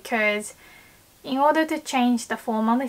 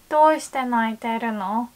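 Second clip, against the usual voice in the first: warm and caring. Shown as a demonstration. Asking a crying friend what is wrong, with warm concern. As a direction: ask "Doushite naiteru no?" as if you really want to help. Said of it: "So you want to say".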